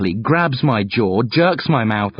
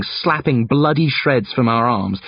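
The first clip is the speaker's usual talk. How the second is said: plain reading voice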